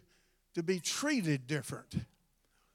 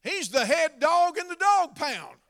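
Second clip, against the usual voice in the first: playful boast; 7 semitones higher, 7 dB louder than usual. Retold or imitated. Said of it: "and I said".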